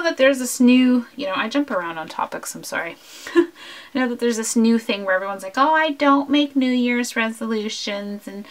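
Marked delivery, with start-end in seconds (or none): 5.6-8.5 lightly put-on scoffing voice; a hint of a silly quoting voice; mocking everyone voice. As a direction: imitate people dismissing resolutions, slightly exaggerated. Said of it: "I don't know why I do that voice".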